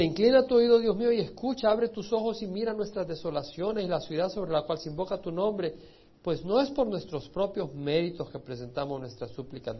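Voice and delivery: loud, pleading proclamation of scripture; fervent prayer reading. Acted. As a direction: cry the plea out to God from the pulpit. Reads Daniel's prayer aloud.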